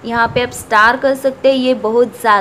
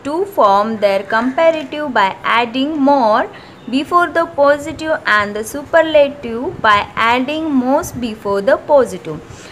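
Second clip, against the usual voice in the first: slow, deliberate textbook reading; reading the rule; much slower than usual. Acted. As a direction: dictate the rule slowly for students to copy. Reads grammar rule from book. (धीमी आवाज़ में नियम पढ़ना)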